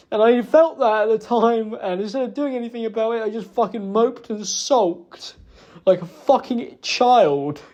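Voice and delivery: real upset, slowing into bitter self-reproach; emotional. Real, not acted. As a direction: get worked up blaming yourself. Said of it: "I'm sorry for getting emotional".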